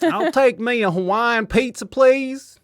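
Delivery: put-on customer voice in a French accent. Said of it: "I'm doing a French accent".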